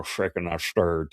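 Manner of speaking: slow, half-hearted bad British spy accent; a hint of a botched British accent, drawn out slowly; lightly attempted, slow Scottish-British movie accent; Sean Connery. Shown as a demonstration. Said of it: "I sound like a bad Sean Connery".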